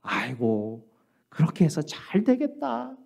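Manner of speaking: mock-sighing sarcastic jab; sarcastic remark. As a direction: act out a drawn-out, sarcastic put-down. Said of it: "이게 빈정거리는 말이 될 수". (빈정거리는 말투를 흉내 내듯)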